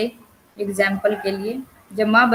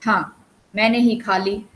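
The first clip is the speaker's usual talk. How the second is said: sarcastic. Acted. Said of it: "मुझ पर बेकार का संदेह किया जा रहा है".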